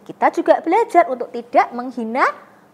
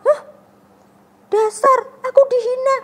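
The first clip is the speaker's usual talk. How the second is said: huffy grumble; 11 semitones higher, 7 dB louder than usual. Pretend. Imagined angry reaction.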